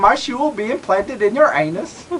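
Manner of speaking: mock threat. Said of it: "Let's do it again".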